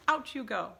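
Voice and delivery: high, loud dismissal; witch shouting. A narrator's reading. Grand High Witch ending the meeting with a shout. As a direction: shout them out of the room.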